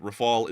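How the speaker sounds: Rafale as ruh-FAHL; English pronunciation. Shown as a demonstration. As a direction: say Rafale in two syllables, ending on L. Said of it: "two different ways to say it".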